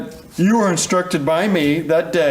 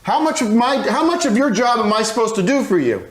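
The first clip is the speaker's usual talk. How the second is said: angry; 5 semitones higher than usual. Acted. Lawyer berates his employee witness.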